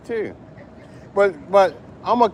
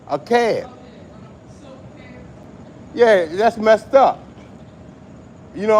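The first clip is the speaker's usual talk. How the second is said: excited rant; 6 semitones higher, 4 dB louder than usual. Real, not acted. Addressing radio host, ranting.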